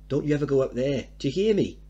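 loud, fast stern order; mother warning her son off; angry warning. Acted. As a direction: lay down the law. Mother forbidding son angrily.

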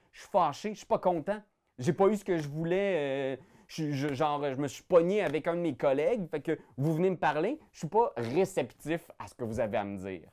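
a touch of annoyed anger, natural voice; mildly angry. Shown as a demonstration. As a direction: grumble that you're not happy. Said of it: "juste savoir que t'es fâché".

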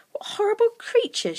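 put-on high girl's voice; offended inner thought, high-pitched; indignant young girl. A narrator's reading. Girl stares down at laughing creatures, indignant.

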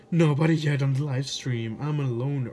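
loud call-out. Real, not acted. Alone on stream, yelling.

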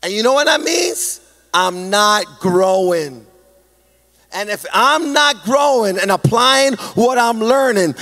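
driving, rhythmic preacher's cadence; impassioned preaching. Real, not acted. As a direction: build through each repeated phrase to the congregation. Preaches in building repeated phrases.

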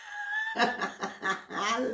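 bursts into a high, helpless giggle; can't hold back a squeaky laugh at the mistake; embarrassed giggle. Real, not acted. Laughing at her own slip.

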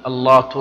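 اللات said with a t ending; teacher showing the error; wrong form. Shown as a demonstration. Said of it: "خطأ".

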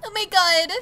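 put-on high, overcome squeal; cringy girl impression. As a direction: imitate a cringy streamer girl gushing. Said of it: "like, cringy white girls that's like".

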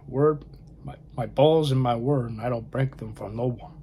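put-on half-hearted Cuban accent, Scarface quote. Collector quoting Scarface while unboxing, in a loose Cuban accent. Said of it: "I'm trying to do the accent".

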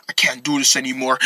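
low, soft growing anger; low, strained voice. Acted. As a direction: hold the anger down, low and quiet. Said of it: "Oh my gosh, your voice".

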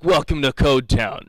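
lightly hammed-up TV food host; a touch of showman's welcome; Guy Fieri. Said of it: "go for the full-on".

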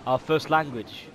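lightly put-on Aussie accent, bloody and mate; hint of Australian accent; mock Australian accent. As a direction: play an Aussie bloke in a game lobby. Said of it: "in Australia".

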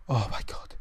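whispered, exhaled relief; breathless relief. Real, not acted. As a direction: sigh it out after the scare. Relief after escape.

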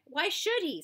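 high, sharp comeback; snapped. A narrator's reading. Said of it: "snapped X-Ray".

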